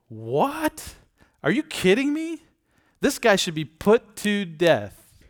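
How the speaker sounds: high, loud outraged cry; outraged shout. Retold or imitated. David outraged at the rich man in the story, shouting. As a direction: shout it in disbelief and fury.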